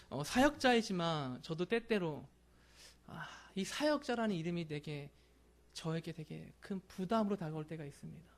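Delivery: ordinary talk, nothing marked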